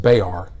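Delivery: "Bayar" said slowly as BAY-ar, two syllables; Texan local pronunciation. Shown as a demonstration. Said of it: "which is pronounced".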